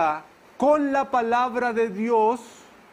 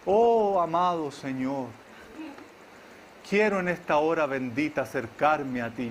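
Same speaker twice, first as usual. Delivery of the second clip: lower, overly poetic prayer voice, lightly parodied; mock flowery prayer; 4 semitones lower than usual. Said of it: "Poéticas, armoniosas".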